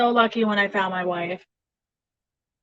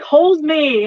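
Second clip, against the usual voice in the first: high, louder needy plea; 5 semitones higher, 7 dB louder than usual. Retold or imitated. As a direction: beg to be held, pitched up. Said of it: "I'll be like".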